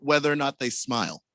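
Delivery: talking through a mouthful; words round a bite of food; mouth full. Real, not acted. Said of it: "with your mouth full of food".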